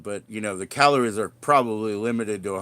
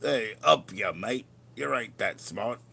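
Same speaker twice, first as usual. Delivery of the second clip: Aussie bloke impression. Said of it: "over bravado, over big, you know, Aussie guy".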